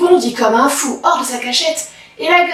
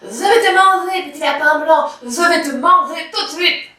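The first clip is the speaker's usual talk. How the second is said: wolf crying out; 4 semitones higher than usual. Acted. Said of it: "Le loup bondit en criant".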